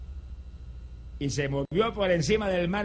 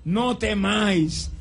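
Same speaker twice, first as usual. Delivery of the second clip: loud, high, commanding call; shouting over the storm; 5 semitones higher, 3 dB louder, much slower than usual. Retold or imitated. Jesus calling to frightened disciples, loud reassuring shout. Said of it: "tuvo que gritarle".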